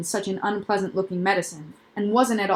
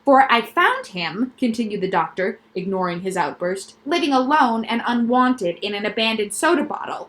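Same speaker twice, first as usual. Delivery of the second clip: quack doctor voice. Acted. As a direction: pitch the noises like a proud specialist. Doctor character voice.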